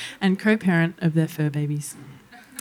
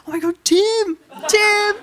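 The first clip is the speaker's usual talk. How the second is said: calling out; 14 semitones higher than usual. Retold or imitated. Yelling at brother in the next car, shouting. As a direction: shout to catch his attention.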